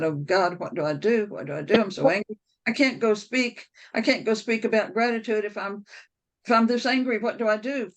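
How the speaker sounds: rising pitch, pleading and upset; retold angry prayer. Driving to speak, crying out to God in anger. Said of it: "I got angrier and angrier".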